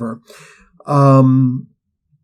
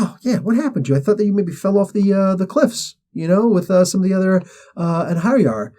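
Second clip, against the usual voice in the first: mocking taunt; 6 semitones higher than usual. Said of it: "It's like".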